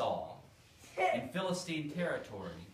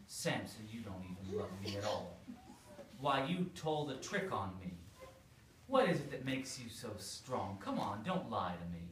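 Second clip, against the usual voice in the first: lightly pouting complaint, a hint of sulk; pouty voice; 3 semitones lower than usual. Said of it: "in her best pouty voice".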